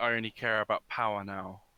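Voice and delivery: ordinary talk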